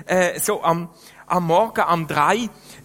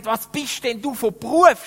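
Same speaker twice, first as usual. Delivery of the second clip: shouting question; 4 semitones higher than usual. Retold or imitated. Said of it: "schreit er mir so".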